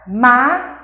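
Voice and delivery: "Máquina" broken into three spaced, emphatic syllables; sílaba por sílaba. Shown as a demonstration. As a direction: punch out each syllable of "Máquina" separately. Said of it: "Isso é determinado sílaba". ("Máquina" bem silabada, com pausas)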